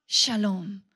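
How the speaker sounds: "shalom" dropped low and settled; second "shalom" low and resolved. Shown as a demonstration. Echo of the doubled word.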